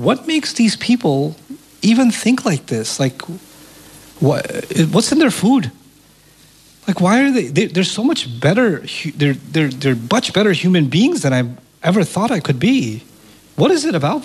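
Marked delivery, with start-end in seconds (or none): 0.1-8.8 high, puzzled wonder; bewildered, pitched up. Retold or imitated. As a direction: ask yourself in amazement.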